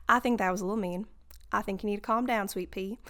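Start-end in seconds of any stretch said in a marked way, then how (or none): 1.5-3.0 Southern accent. Real, not acted. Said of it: "why'd I become Southern".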